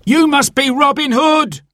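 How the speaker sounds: scared butcher crying out on meeting Robin; terrified cry. Acted. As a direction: blurt it out in sudden fear. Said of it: "cried the terrified man".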